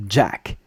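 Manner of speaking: "Jack" with a hard dj onset; explosive English j. Shown as a demonstration. Teacher comparing English to French, "Jack" with hard dj. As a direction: start "Jack" on a popped English j. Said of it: "compare it to Jack".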